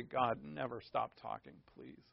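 soft, low, savoring murmur; hushed entranced plea. Pretend. Preacher imagining hearing God's rich, lovely voice, hushed plea.

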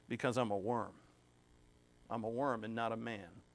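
soft, subdued, holding back emotion; choked up. Real, not acted. Preacher moved by reading of Christ as a worm, emotional. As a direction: let the words sink quietly, close to tears. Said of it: "get emotional".

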